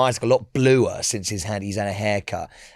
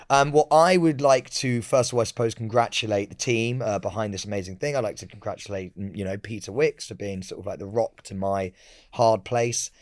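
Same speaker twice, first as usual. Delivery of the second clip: mock acceptance speech; 2 semitones lower than usual. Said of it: "Acceptance speech".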